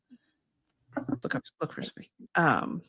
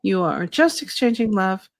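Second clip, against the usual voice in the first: slow, calm channeling voice; channeled spirit guide; slower than usual. Acted. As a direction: speak as a gentle guide spirit. Channels her guide Shay.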